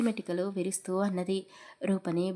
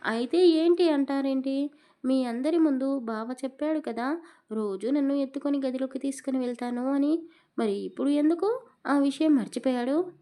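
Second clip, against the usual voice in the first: put-on higher, childish sulking complaint; young wife sulking at her husband, higher and whiny; sulky angry outburst; 5 semitones higher than usual. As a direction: whine it like a pouting child. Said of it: "అని అలిగి కూర్చుంది".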